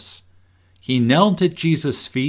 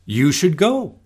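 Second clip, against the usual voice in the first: gentle urging; 4 semitones higher than usual. Shown as a demonstration. Parent urging a nervous child to the party, gentle. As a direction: encourage a nervous child kindly. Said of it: "parents tell you to go".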